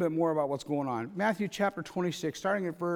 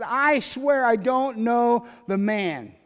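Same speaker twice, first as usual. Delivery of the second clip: swearing an oath; 2 semitones higher, 4 dB louder, slower than usual. Retold or imitated. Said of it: "He denied it again with an oath".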